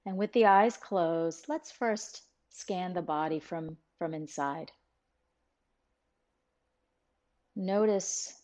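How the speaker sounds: calm, even meditation guide with long pauses; guided meditation. Real, not acted. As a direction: ease listeners inward, phrase by phrase, leaving room to breathe.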